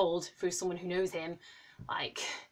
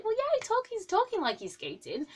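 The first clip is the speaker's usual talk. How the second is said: quoting auntie; 13 semitones higher than usual. Retold or imitated. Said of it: "And she was like".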